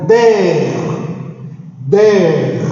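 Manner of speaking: "Der" firmly, as a lone stressed syllable; tonic syllable isolated. Shown as a demonstration. Teacher points out the tonic syllable, stressing "Der". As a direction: give "Der" a firm, separate emphasis. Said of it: "Esta é a sílaba tônica".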